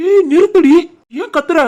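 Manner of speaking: husband frantically hushing his shouting wife; alarmed hushing. Acted. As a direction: stop her yelling before mother hears.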